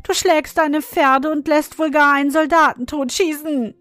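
put-on tearful girl. A narrator's reading. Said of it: "rief Marie weinend".

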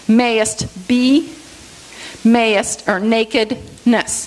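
"Mayest be" with beats on "May" and "be"; "nakedness" slowly, accents on "na" and "ness"; first, third syllables accented. Shown as a demonstration. Teacher demonstrating rhythm in the verse, first and third syllables accented. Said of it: "accent on the first and third syllable".

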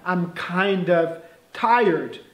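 slow, careful English example; slow model sentence. Shown as a demonstration. Teacher modelling slowly for students. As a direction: say it slowly for learners. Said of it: "Também seria".

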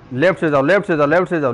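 insistent, repeated callout; urgent command. Real, not acted. Player directing teammate Sagar to go left, urgent command. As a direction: drive the direction home in quick repeats.

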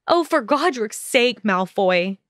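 a moderate exasperated shout, pitch up on Oh. Acted. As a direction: fling his name back at him in exasperation. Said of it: "Hermione shouted".

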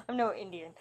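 laughing at the misread "I'm no Indian"; amused repeat of "I'm no Indian". Shown as a demonstration. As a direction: chuckle through "Indian" as a joke misreading. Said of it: "I'm no idiot".

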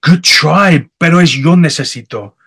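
lightly voiced local, friendly correction; a hint of a kind local setting him straight; helpful Mexican local. Locals correcting his Spanish.

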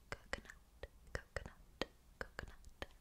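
faint ASMR whisper. Shown as a demonstration. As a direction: let it fade to a faint whisper. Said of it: "or whispered".

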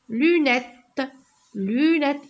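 "Lunette" with a held first syllable, lu-nette. Shown as a demonstration. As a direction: stretch and beat out both syllables of "Lunette". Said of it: "je frappe les syllabes".

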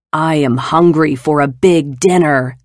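loud booming giant voice; roaring giant. Acted. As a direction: roar it like a hungry giant. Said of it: "the giant roared".

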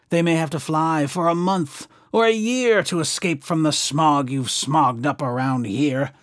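a mildly hoarse plea, sending his friends away; croaking Lorax. Acted. Lorax telling the Onceler his swans must leave, lightly croaky. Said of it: "he cried with a crofulous croak".

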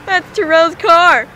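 slow, drawn-out stalkerish voice; creepy stalker voice. Real, not acted. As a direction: linger on each word like a creep. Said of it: "That sounds stalkerish".

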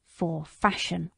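slow, drawn-out "For fashion." in scorn; mild bitter scorn, slowly; scornful repeat. Acted. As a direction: stretch "fashion" with old contempt. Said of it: "with a stamp of his foot".

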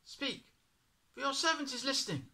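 put-on high, quick boy's reply; eager boy blurting his answer; young Samuel. A narrator's reading. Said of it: "replied Samuel".

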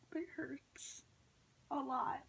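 pained whisper through the pinch. Real, not acted. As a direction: breathe the words out in pain. Clothespins pinching her face.

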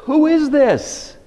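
high, slow, amazed question; awed question. Retold or imitated. Disciples marvelling after the storm, high slow awe.

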